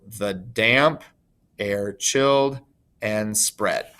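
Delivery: "the damp, air chilled, and spread" slowly, in weak-strong pairs; iambic scansion. Shown as a demonstration. Teacher showing the masculine line is iambs, slow iambic stress. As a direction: pause after "damp" and "chilled", leaning on "damp", "chilled", "spread". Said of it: "the masculine line is iambs".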